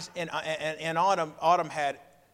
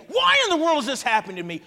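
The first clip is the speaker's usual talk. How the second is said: higher, louder and faster, an exasperated cry; frustrated outburst; 10 semitones higher, 7 dB louder, faster than usual. Retold or imitated. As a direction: throw the question up in exasperation. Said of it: "you're in frustrated mode".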